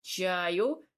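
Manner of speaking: mildly magnanimous host's offer; gracious offer. A narrator's reading. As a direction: offer it as a small favour, voice lifting at the end. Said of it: "милостливо предложил мне".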